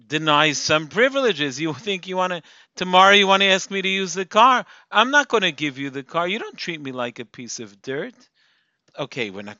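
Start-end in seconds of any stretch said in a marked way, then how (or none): 1.6-7.8 put-on louder angry scolding of a teen; strong scolding. Shown as a demonstration. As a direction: lay down the law with heat. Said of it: "Maybe even a stronger approach".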